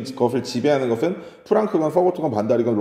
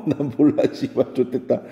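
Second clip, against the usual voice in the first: laughing curse. Real, not acted.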